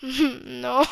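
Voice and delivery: a laugh breaking into a short no; stifled laughing denial. Retold or imitated. Son denying the spending to his dad, holding back laughter. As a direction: try to deny it through a laugh. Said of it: "And I just started laughing".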